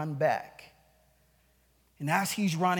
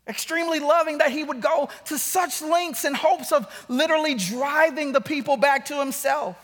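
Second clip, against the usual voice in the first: raised, emphatic pulpit delivery; forceful preaching; 6 semitones higher, 6 dB louder than usual. Real, not acted. Preacher warns the congregation of coming judgment, preaching forcefully. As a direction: drive the words home from the pulpit.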